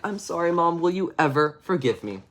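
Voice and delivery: put-on subdued, mildly tearful child's plea; pleading apology. David asking Mom's forgiveness, subdued mock-contrite plea. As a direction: beg forgiveness lightly, in a small voice. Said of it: "And he's like".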